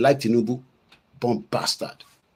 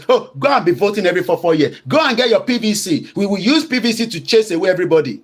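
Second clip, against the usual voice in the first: mocking British; 5 semitones higher than usual. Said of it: "telling us".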